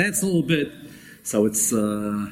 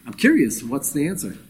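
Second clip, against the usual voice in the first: feigned curiosity; 3 semitones higher than usual. Retold or imitated. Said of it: "she's playing the part, I'm just a curious wife".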